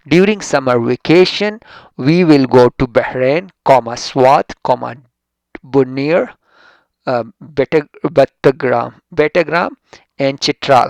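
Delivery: slow, loud, pausing at each place name; slow reading aloud. Shown as a demonstration. Teacher reading the sentence to students, slow and deliberate. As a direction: read the list slowly for the class. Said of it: "reading example sentence to class".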